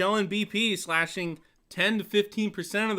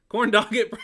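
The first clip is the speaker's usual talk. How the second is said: higher, louder whiny quarterback bark; Phillip Rivers voice; 5 semitones higher, 7 dB louder than usual. Acted. Reading a viewer comment as the quarterback, higher and louder. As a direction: pop it out like a fired-up quarterback. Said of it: "we do Talk Like Phillip Rivers Day".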